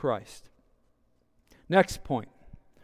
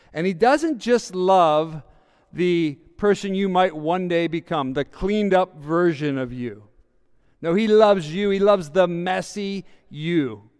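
building emphasis; 6 dB louder than usual. Real, not acted. Preacher building to a point.

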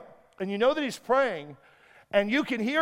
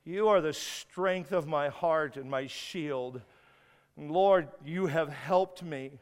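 hushed prayer; 4 semitones lower, slower than usual. Acted. Pastor voices David's prayer.

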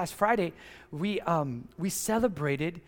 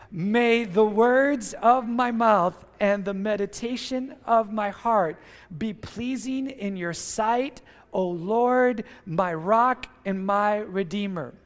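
many voices in unison; slower than usual. Shown as a demonstration. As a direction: read aloud as one with enthusiasm. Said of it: "read it aloud together with great Doral Vineyard enthusiasm".

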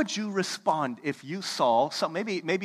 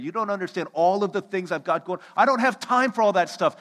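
mock-exasperated listener pleading busyness; defensive excuses; 3 dB louder than usual. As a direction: argue your way out of it.

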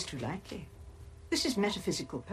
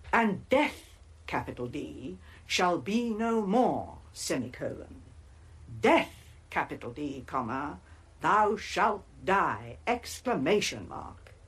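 mocking the overdramatic version, dictating punctuation; slower than usual. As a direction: read it out with hammed-up drama, spelling the marks. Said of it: "sacrificed to hysterical punctuation".

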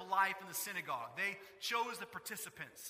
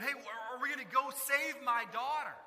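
louder, higher, urgent nudge; impatient father; 3 semitones higher, 6 dB louder than usual. Retold or imitated. Jairus urgently pressing Jesus to come save his daughter. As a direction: hurry them along.

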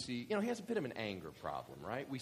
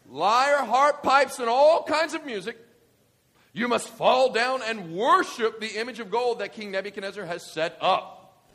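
high, loud royal decree; herald's loud proclamation; 9 semitones higher, 13 dB louder than usual. Acted. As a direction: belt it to the crowd. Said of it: "the herald loudly proclaimed".

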